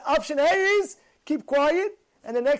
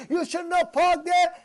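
higher, slow, mildly raised retold yell; mock scream; 6 semitones higher, 3 dB louder than usual. Fellow yells at the driver about parking, a mild mock yell. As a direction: drag it out like an imitated angry yell. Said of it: "he starts screaming".

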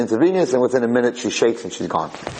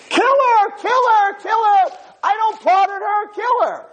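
very high, forceful acted scream; 3 dB louder, slower than usual. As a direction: hammer out repeated shouted demands. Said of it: "They think he's screaming".

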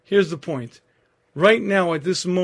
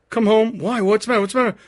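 alarmed back-and-forth; 5 semitones higher, 4 dB louder, faster than usual. Retold or imitated. Phone call, wife panicking.

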